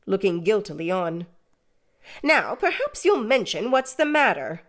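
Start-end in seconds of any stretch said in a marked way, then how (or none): 2.2-4.6 raised, mock breathless demand; panting a little after the struggle; out of breath. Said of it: "said my sister out of breath".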